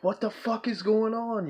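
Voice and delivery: high-pitched bewildered reaction; bewildered outcry, high but not shouted; retold disbelief. Retold shock at the fight.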